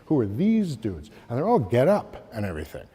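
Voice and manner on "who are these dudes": these lifted in Who are these dudes; puzzled Who are these dudes, rising on these; corrected intonation. Shown as a demonstration. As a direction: redo the line, stressing these. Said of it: "perhaps I didn't say that with the correct intonation".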